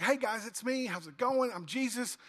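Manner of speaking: a hint of a friendly guy saying hi; casual Jesus voice. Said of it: "He's like".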